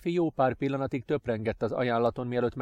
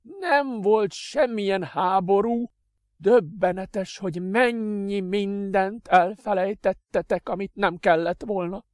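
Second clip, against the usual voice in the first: high, slow, contemptuous; scornful master; 9 semitones higher, 4 dB louder, slower than usual. Acted. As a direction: sneer at their ignorance. Adrian scorns ignorance.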